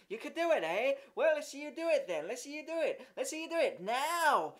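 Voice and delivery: high, loud jeering dare; yelled taunt. A narrator's reading. Jimmy taunting Horace before the children, loud high jeer. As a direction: taunt him to prove it. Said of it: "they yelled".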